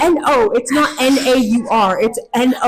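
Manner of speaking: loud retold spelling lesson; exasperated correction. American retelling how she corrected her friend, exasperated spelling. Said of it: "and I'm like".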